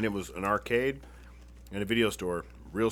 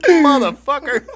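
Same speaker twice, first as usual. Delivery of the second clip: loud, high, slow, drawn-out curse through laughter; son's stunned, laughing outburst at his mom; laughing outrage; 15 dB louder, slower than usual. Retold or imitated. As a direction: stretch out the curse in disbelief. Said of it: "I'm like".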